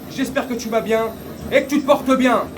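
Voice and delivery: loud, high hype greeting. Real, not acted. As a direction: bellow the hello to the viewers. Salut énergique du vlog. (salut crié aux abonnés)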